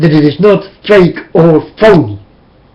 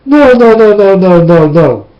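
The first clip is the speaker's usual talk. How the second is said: rapid string of refusals, falling in pitch; retold disbelief; 4 dB louder than usual. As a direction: wave the thought away, sliding steadily downward. Retold shocked denial to self.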